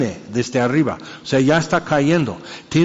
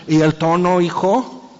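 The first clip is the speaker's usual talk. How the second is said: scolding parent; 4 semitones higher than usual. Retold or imitated.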